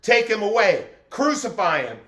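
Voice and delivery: mild mock yell of an angry mob; retold crowd yell. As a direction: chant it like the crowd demanding death. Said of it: "All they did was yell".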